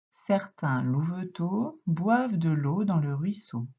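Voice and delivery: slowed, careful reading of the sentence; slow read-aloud. Shown as a demonstration. Teacher rereading the sentence slowly for the pupil. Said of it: "quand tu vas lire".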